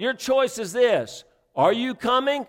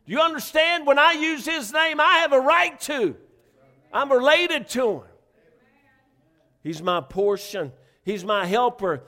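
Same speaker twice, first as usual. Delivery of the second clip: defiant rebuke to Satan; 5 semitones higher than usual. Retold or imitated. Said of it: "I tell old Satan".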